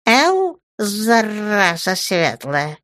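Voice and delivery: high, drawn-out aggrieved voice; slow, high-pitched hurt complaint; sad and offended. A narrator's reading. Gnome curses the one who beat him, sad and offended. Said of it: "Гном был грустным и обиженным".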